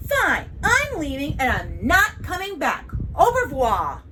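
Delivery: loud, huffy declaration; offended, emphatic parting shot; huffy exit. Acted. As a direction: storm off with a grand farewell. Child storms out offended.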